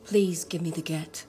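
low, calm, measured request. Acted. Woman asking her husband for a divorce, calm. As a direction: ask calmly, pitched low. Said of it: "You said that so calmly".

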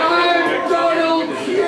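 slow, shouted self-introduction; booming stage intro; showman announcement. Acted. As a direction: proclaim your name to the room. Star announces himself to crowd.

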